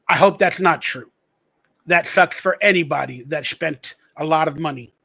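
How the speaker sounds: a hint of pretend decency; mock classy sympathy. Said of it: "the class act in me says".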